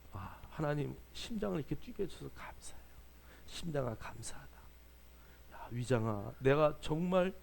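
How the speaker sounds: hushed, intimate thanks to the body; gentle whispered gratitude at waking; soft morning prayer. Shown as a demonstration. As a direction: quietly thank your heart and stomach like old friends. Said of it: "이러고 좀 막 두들겨봐".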